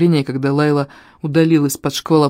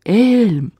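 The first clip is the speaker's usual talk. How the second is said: high, drawn-out cry without much volume; a cry carried through a blizzard; distant cry; 6 semitones higher than usual. A narrator's reading. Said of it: "словно сквозь вьюгу донёсся до меня крик Лайлы".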